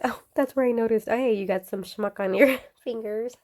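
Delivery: real laughter creeping into the words; amused. Real, not acted. Amused at ink on her fingers.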